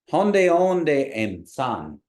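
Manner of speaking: loud, very slow, stretched syllables, starting high and dropping; slow model phrase. Shown as a demonstration. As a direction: model it clearly and slowly for repeating. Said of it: "we're gonna practice saying them".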